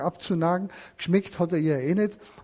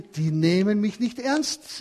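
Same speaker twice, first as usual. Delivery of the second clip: leicht verärgert; 4 semitones higher, 3 dB louder, slower than usual. Acted. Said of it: "Da war sie ganz böse".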